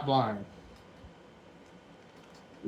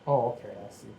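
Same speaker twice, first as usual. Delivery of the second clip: unintentionally condescending tone; condescending, as if explaining the obvious. Real, not acted. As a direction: talk down to the listener a little. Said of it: "I say in the worst condescending voice possible".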